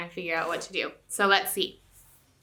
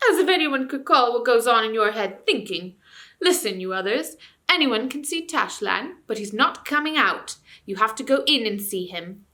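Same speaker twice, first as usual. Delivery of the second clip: ranting ape; 3 semitones higher, 6 dB louder than usual. Acted. Ape lecturing crowd.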